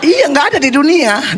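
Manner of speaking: high laughing voice through the words. Real, not acted. Preacher to congregation, joking about his children's names, laughing. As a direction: laugh while you insist it is true.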